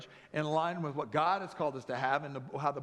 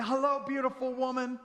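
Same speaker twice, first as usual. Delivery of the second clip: dreamy husband greeting; 6 semitones higher than usual. Acted. Pastor acts his dream homecoming.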